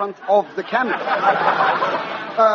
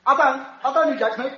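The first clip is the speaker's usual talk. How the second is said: cockney comic; 7 semitones higher, faster than usual. Acted. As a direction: push "don't" harder in Cockney. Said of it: "that crazy cockney".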